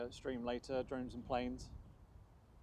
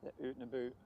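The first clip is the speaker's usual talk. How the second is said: put-on Canadian accent. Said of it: "That's my Canadian accent".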